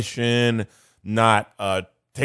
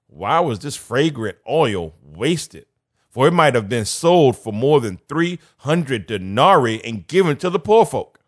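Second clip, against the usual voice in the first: indignant sneer; 3 semitones higher, 4 dB louder than usual. Acted. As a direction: sound offended at the waste. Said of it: "That's the attitude".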